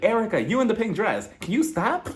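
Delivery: high-pitched mock telling-off; imagined singer's interruption. Singer stops woman in pink dress, high mock annoyance. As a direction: imitate a star cutting off a fan. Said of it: "waiting for" a singer "to be like".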